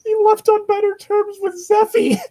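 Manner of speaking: high, laughing through the words; can barely get it out for laughing. Real, not acted. Player laughing at the irony, laughing.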